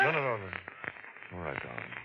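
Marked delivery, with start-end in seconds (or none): 0.0-0.5 sleep moan. Acted. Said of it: "you were moaning in your sleep".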